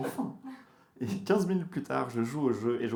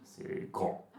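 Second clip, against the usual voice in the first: bad tour guide; slower than usual. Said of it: "très mauvais guide touristique".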